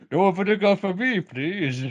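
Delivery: high, loud comic customer voice; playful high-pitched order; put-on customer voice. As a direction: pipe up high as a mock chip-shop customer. Playing along as chip shop customer.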